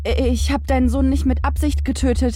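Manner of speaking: high, stammering, begging for life; a man about to be killed; terrified pleading. Acted. Merchant begs again.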